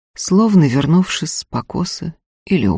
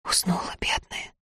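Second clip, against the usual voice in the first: soft pitying whisper; 12 dB quieter than usual. A narrator's reading. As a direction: whisper it so she won't wake. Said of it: "прошептала". (тихий жалостливый шёпот)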